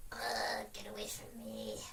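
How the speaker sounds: breathy whisper of disgust; mock disgusted whisper to the ex. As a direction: hiss it away under your breath. Recalling sitting beside ex on bus.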